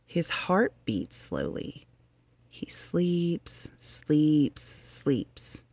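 soft whisper fading on each sleeps; hushed whisper. A narrator's reading. Reading to children, whispering over the sleeping woodchuck.

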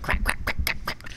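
rapid, dry crack-crack-crack; crackling imitation. Mom mimics her son walking around in dirty underwear, crackling imitation. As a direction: imitate stiff underwear crackling with each step. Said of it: "He'd be walking around crackling".

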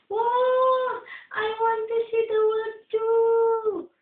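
high, sing-song crab voice; lightly sung, eager little crab. A narrator's reading. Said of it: "said the crab".

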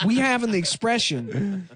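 put-on candidate voice. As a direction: raise the pitch, folksy campaign speech. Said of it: "chooses to sound like that".

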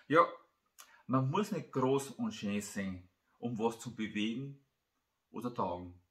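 slightly emphatic, measured Christmas tale reading; story narration. A narrator's reading. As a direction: read the tale out line by line, with pauses. Reads own Christmas story aloud.

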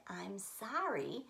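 soft, quiet sorry; gentle sorry. Shown as a demonstration. Teacher repeating the gentle apology softly. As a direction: say it kindly. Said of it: "The first way that I said".

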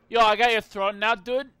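loud, cocky bragging; mock bravado. Gamer gloating over a stolen throne, loud cocky brag. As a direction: swagger like you just won.

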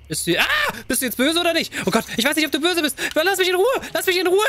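high anxious pleading; frightened. Real, not acted. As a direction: beg the human to leave her alone. Confronting the human in fear. (hohes ängstliches Flehen)

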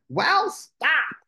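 high, honking goose scolding; grouchy goose. Acted. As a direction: snap it like a cross goose. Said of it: "the goose grouched".

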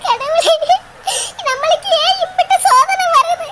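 slow wailing to God; lamenting.

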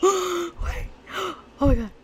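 sudden high sharp cry of surprise; startled wait. Real, not acted. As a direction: jolt up at the shock. Sudden shock in game.

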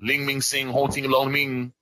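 slow, sing-song fake Chinese syllables, hammed up; string nonsense syllables like a bad Asian impression; mock Chinese gibberish. Troll claiming to be Asian in game chat, mock Chinese gibberish. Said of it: "I'm Asian".

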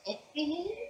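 high, soft squeaky name cry; Pokemon cry. Shown as a demonstration. Actor demos the Pokemon's name cry, high and soft. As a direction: squeak the name like a little creature. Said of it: "Gifliffy says".

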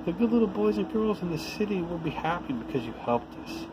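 lightly voiced toys, grateful; high toy voices. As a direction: thank her in a small, high voice. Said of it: "cried the little clown and all the dolls".

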